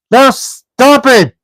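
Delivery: slow, high, loud troll order; two trolls shutting the argument down; angry trolls. A narrator's reading. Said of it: "said Tom and Bert together".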